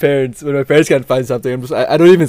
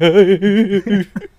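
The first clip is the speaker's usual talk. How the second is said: exaggerated fake sobbing; comic boo-hoo wail; mock crying; 4 semitones higher than usual. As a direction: imitate a kid bawling, half laughing. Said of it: "I'm, like, fucking crying".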